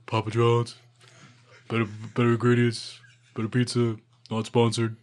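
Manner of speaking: halting attempt at a star athlete's pizza ad; lightly voiced pitchman impression; Shaq. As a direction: try a mock celebrity ad read. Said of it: "I can't do a Shaq impression".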